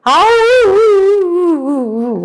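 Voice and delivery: long high wolf howl; playful imitated howling. Shown as a demonstration. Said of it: "can you make the sound?".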